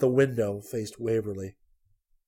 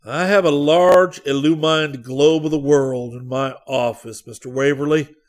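rising, almost sad; 4 semitones higher, 10 dB louder than usual. Acted. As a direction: lift the voice in mild sorrow. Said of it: "His voice rose almost sadly".

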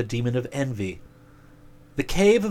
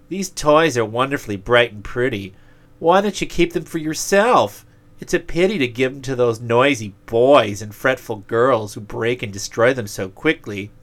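louder, coaxing demon; tempting demon voice; 4 dB louder than usual. Acted. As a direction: tempt him sweetly like a demon. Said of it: "the demon of selfishness came to him and said".

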